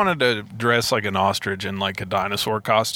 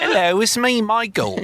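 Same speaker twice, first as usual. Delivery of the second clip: high-pitched, louder goofy hello; Michael impression; 11 semitones higher, 3 dB louder than usual. Podcaster demonstrating an impression to co-host, high put-on voice. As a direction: announce yourself in a put-on high voice. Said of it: "do a Michael impression".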